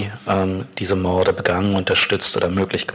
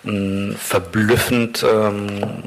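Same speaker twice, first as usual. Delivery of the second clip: normal talking voice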